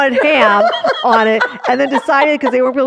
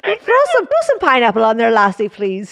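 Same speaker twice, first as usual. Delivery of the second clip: put-on botched Canadian accent gone Irish; mock Irish accent. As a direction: playfully order in a fake Irish lilt. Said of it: "We're gonna end in Ireland now".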